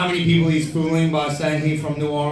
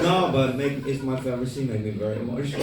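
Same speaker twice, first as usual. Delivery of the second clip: lightly imitated filmmaker insisting; a light accented retold voice; Tommy; 3 dB quieter, faster than usual. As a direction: mimic his broken English, trailing softer. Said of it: "He's like".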